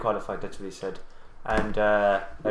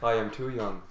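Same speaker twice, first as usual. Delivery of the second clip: really deep preteen voice; 6 dB quieter than usual. Retold or imitated. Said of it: "I spoke in a kind of a really deep preteen voice".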